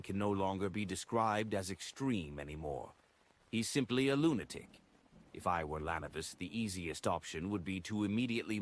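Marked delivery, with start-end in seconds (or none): 3.5-4.8 alarmed realization. Acted. Klein's alarmed inner thought.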